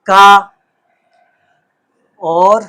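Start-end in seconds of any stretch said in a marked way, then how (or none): 0.1-0.5 का called out loud and firm; letter sound called out. Shown as a demonstration. Teacher to pupils, sounding out का loudly. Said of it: "ये है".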